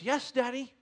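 lightly voiced small boy; obedient little boy. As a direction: answer dad like a compliant five-year-old. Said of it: "And he goes".

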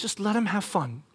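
soft, gentle nudge; real nice. Retold or imitated. Wife asking husband to ease up, real nice. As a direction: coax quietly and kindly. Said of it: "she says it real nice".

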